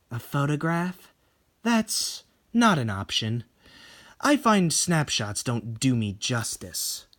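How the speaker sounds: slow, cold and dismissive; Tomie voice. Acted. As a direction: brush it off, slowly. Tomie refuses a photo.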